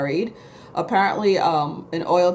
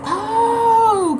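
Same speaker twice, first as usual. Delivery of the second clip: high, loud startled oh; a sudden imitated gasp of surprise; surprised friend; 14 semitones higher, 5 dB louder than usual. Imitating her friend hearing about the farms, high surprised oh. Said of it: "She's like".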